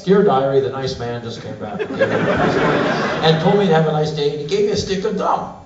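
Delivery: giddy diary voice, laughing, rushing in places; mock diary entry. Traveler given back his passport, giddy diary relief. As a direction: gush with silly relief.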